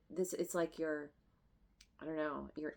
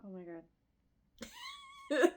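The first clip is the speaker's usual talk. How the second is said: moved to tears; much slower than usual. Real, not acted. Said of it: "Oh God, I'm gonna start crying".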